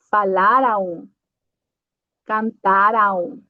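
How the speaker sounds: falar and cantar ending in a nasal aum, slowly. Shown as a demonstration. Teacher modeling final am as aum, slowly for students. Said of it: "Aum vai ser".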